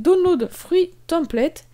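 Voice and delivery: English with a strong French accent, slowed down. Real, not acted. French tutorial maker naming a download button, French-accented English. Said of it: "Mon accent anglais est catastrophique".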